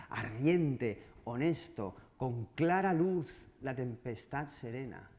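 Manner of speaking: slow, solemn reading of a sonnet; poem recital. Acted. Teacher reading Garcilaso's sonnet to the class, slow and solemn. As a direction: savour each line of the verse slowly.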